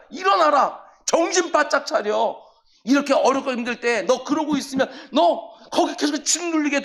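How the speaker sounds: a preacher yelling at his soul to get up; shouting at his soul. Acted. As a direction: rouse your own sleeping soul with a shout. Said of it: "큰 소리를 지르는 거예요".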